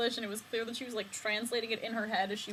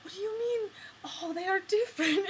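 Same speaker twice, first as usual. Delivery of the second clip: put-on mild French accent; 9 semitones higher than usual. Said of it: "And she's like".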